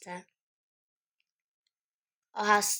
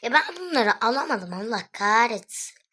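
frustrated outburst; 6 dB louder than usual. Real, not acted. Frustrated at missing items.

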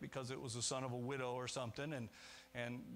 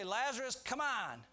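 higher, lightly voiced Jesus coaxing Lazarus out; a friendly, higher-pitched nudge through an open door; inviting call; 7 semitones higher than usual. Preacher imagining Jesus coaxing Lazarus from the tomb, higher friendly call. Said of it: "he's saying in a way".

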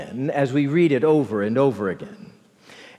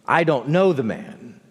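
definitive denial. Retold or imitated. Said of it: "I hear Peter definitively say".

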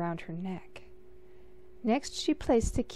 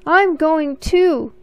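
put-on high, slow little-boy whine; louder, higher tagalong whine; whiny little brother; 8 semitones higher, 12 dB louder, slower than usual. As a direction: drag it out like a pestering kid brother. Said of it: "said her little brother".

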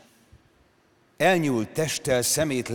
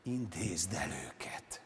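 hissed whisper, slow and much softer; 4 semitones lower, 13 dB quieter, much slower than usual. Acted. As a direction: hiss the order to the tiger. (suttogva sziszegve)

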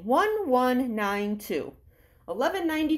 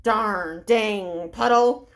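low, slow grumble at the puddle; grumpy grumble; 3 semitones lower, 3 dB louder, much slower than usual. Acted. Leader showing kids the grumpy stomping choice, slow grumble. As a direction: drag it out like a sulky grown-up. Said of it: "do you want to stomp".

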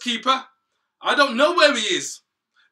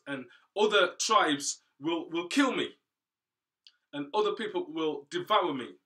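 desperate pleading; 7 semitones higher, 13 dB louder than usual. Acted. Cain despairs at his punishment.

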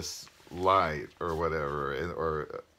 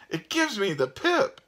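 high-pitched ghostly squeal; screamed; 5 dB louder than usual. A narrator's reading. Fleeing ghost protesting about the place, screaming. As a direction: shriek it in a falsetto character voice. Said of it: "screamed a voice".

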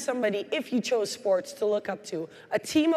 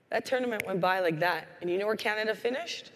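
ordinary delivery

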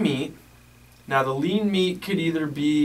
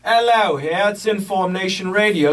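put-on British accent; 4 semitones higher, 4 dB louder than usual. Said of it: "the British accent segment today".

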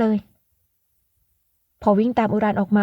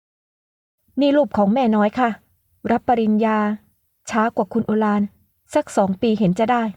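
put-on gentle, slow elderly lady, barely changed; a hint of a polite older mother; lightly voiced mother; slower than usual. Mother showing the guest an old photo, lightly voiced.

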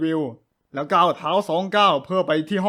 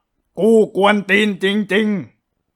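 drawn-out slow; 5 dB louder, much slower than usual. Acted. Nod meaning he is annoying.

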